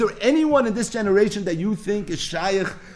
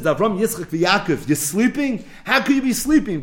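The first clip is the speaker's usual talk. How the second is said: rising, urgent wake-up call; pleading rebuke; 3 semitones higher than usual. Retold or imitated. Elijah pleads with the patriarchs to wake. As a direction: shake the sleeping fathers awake.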